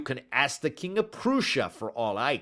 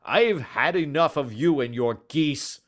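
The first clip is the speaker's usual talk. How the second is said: furious, much higher and louder; angry shouting; 6 semitones higher, 5 dB louder than usual. Acted. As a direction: bellow at the pestering little man. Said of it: "he shouted".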